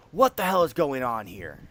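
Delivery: lightly voiced captain demanding answers; indignant captain. Captain walks in on the drinkers, indignant. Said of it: "the captain walks in and goes".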